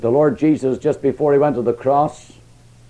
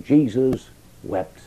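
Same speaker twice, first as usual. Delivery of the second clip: slow, hushed wonder on Jesus wept; slow solemn repeat; 2 semitones lower, slower than usual. Acted. Preacher repeating the verse in wonder to listeners, slow and weighed. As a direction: linger on each word, marvelling.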